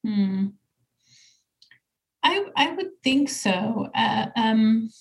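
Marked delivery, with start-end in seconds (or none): 2.2-4.9 halting, stumbling start; stuttering. Real, not acted. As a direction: trip over the first words. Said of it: "I'm stuttering suddenly".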